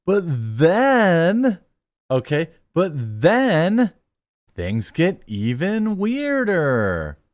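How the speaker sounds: high, slow laughing disbelief. Real, not acted. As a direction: laugh through the words. Laughing reaction to story.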